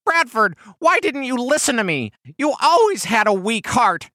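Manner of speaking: high, loud, anguished reproach; half scolding, half sobbing. Acted. Massasoit berates his lifeless friend, half sobbing. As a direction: scold him through acted grief. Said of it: "half scolded, half sobbed".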